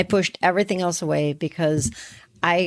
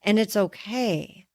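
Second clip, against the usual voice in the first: reassuring; 2 semitones higher, slower than usual. Pretend. Reassuring someone who is drowning.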